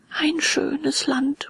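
very slow, high, drawn-out musing; dreamy murmur. A narrator's reading. Puppet half won over by lazy land, slow dreamy murmur. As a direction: muse on it slowly, half captivated. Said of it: "murmelte Bengele".

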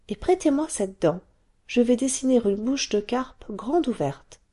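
put-on a small girl explaining her secret; little girl Taffy. Taffy child voice.

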